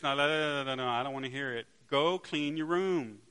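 dad loudly cutting off his son's song; loud dad cutoff. Acted. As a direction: shut the kid down mid-song.

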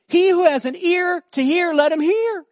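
high, loud proclaiming call; loud proclamation. Acted. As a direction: call it out like a prophet to a crowd. Voicing Jesus' call, then softer contrast.

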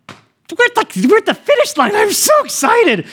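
imitating himself in a very high, squeaky falsetto; hammed-up emotional squeal, voice way up high; overcome with emotion. Husband near the end of his wife's labor, hammed-up tearful excitement. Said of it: "I'm starting to get emotional".

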